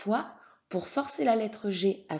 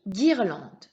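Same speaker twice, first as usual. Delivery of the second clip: guirlande said louder, set apart; emphatic dictation; 6 dB louder than usual. Shown as a demonstration. Teacher repeats for the pupil, guirlande loud and distinct. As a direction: project guirlande as a clear model word.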